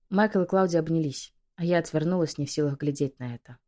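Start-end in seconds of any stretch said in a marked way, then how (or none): none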